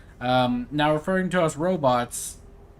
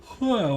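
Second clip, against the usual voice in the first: yawn; 8 semitones higher than usual. Real, not acted. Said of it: "why am I yawning?".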